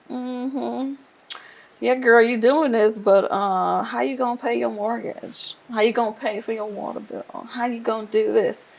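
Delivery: lightly voiced devil, pitched a bit up, needling questions; devil's doubting voice. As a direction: imitate a skeptical tempter picking at her confidence. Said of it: "sometimes the devil, the enemy, will just be like".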